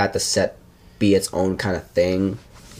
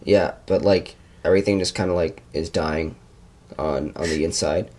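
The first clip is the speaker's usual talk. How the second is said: Nick; 4 semitones lower than usual. Retold or imitated. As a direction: imitate your chill, low-toned co-host brooding. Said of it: "I'm gonna impersonate you now".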